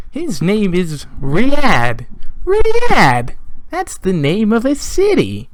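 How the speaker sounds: high, loud, drawn-out cry on the name; hammed-up outburst, pitch soaring; mock outraged yelling. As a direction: yell it slowly in exaggerated disbelief. Mock outrage over player's name.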